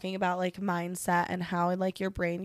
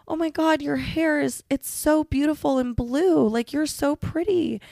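higher-pitched admiring compliment; gushing girl; 7 semitones higher, 4 dB louder than usual. Retold or imitated. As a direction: imitate a stranger gushing with admiration. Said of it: "the girl next to me was like".

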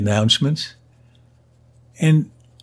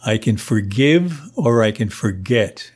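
cool level threat; 2 semitones lower than usual. Retold or imitated. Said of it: "level my gaze at him".

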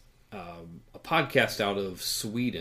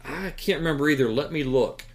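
mock girl voice, a bit higher and faster; host voicing a podcast woman, higher and quicker; higher, quicker imitation of the girl; 5 semitones higher, 4 dB louder than usual. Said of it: "the girl goes".

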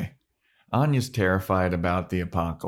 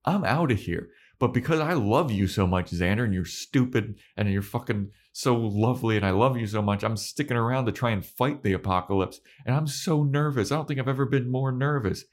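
lightly raised, rambling panic; mock Anya; 5 semitones higher than usual. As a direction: babble nervously in a slightly higher voice. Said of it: "And she's like".

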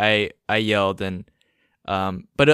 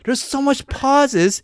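drawn-out emphasis; 11 semitones higher, much slower than usual. Real, not acted. Drawn out complaint.

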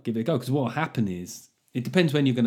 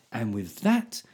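bedtime story. Pretend. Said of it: "that'd be a nice little bedtime story".

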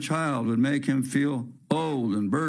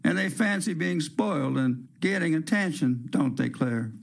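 cooing; 2 semitones higher than usual. Acted. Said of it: "Her mother coos her".

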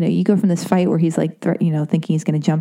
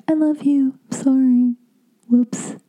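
sheepish apology; 7 semitones higher, slower than usual. Retold or imitated. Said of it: "And then I'm like".

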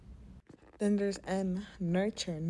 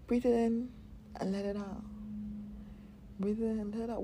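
guided breathing. Shown as a demonstration.

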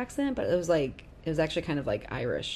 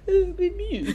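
very high, louder squeak; imitated odd noise; 5 dB louder than usual. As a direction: squeak out a silly mock attempt. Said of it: "like, sort of like".

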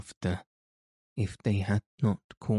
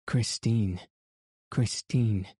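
calling out. A narrator's reading. Chapter opening, calling her name.

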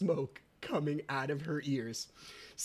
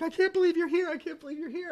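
put-on high-pitched child's amazement; excited little girl; 14 semitones higher, faster than usual. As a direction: imitate a daughter thrilled to see Dad. Voicing his delighted daughter.

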